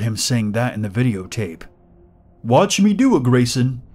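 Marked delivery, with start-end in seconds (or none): 2.4-3.8 high sing-song creepy voice; creepy pig man voice. Acted. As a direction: coax like a creepy mascot.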